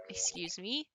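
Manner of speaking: unvoiced whispered Excuse me?. Real, not acted. Friend whispers confused question during the trial, whispered. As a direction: breathe it as a puzzled whisper. Baffled aside.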